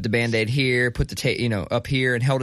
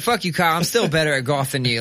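laughing taunt; 2 semitones higher, faster than usual. Retold or imitated. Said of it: "still talk".

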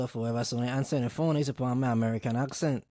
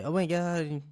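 gushing customer; 5 semitones higher, slower than usual. Acted. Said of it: "and they".

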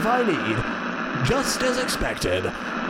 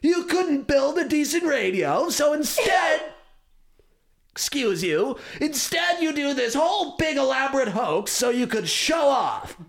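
angry shouting; 4 semitones higher than usual. Acted. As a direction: shout the accusation at him. Accusing friend of a hoax.

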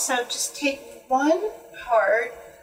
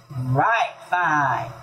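low hound echo; 7 semitones lower than usual. A narrator's reading. Hound agrees with the mule, low voiced. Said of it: "echoed the hound".

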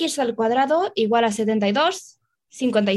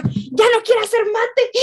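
whiny quote; 9 semitones higher than usual. Retold or imitated. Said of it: "three seconds later".

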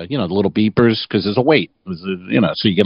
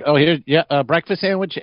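relieved hostess; 7 semitones higher than usual. Retold or imitated. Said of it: "she was like".

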